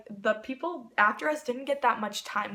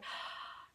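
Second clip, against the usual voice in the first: soft gasp; 17 dB quieter than usual. Retold or imitated. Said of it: "and I was just like".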